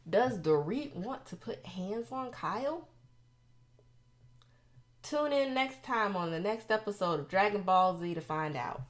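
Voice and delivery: teasing episode-outro voice, question lifted; mock cliffhanger announcer.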